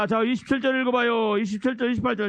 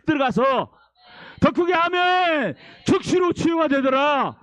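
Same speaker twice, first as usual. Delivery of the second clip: emphatic, declaimed sermon climax; impassioned preaching; 5 semitones higher than usual. Acted. Preacher proclaiming the woman's healing, impassioned preaching. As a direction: proclaim it with force.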